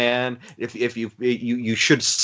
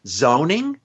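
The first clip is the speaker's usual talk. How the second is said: incredulous thought; 4 semitones higher than usual. Retold or imitated. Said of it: "I'm sitting there thinking".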